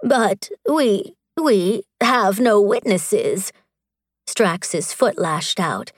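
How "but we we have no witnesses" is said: slow, hesitant, stumbling on we; nervous official stammering out an objection; stammered. Acted. Magistrate objects before the warrior, slow nervous stammer. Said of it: "The magistrate stammered".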